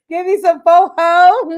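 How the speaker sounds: loud, high, hammed-up Black American accent. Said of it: "said that, like, so black".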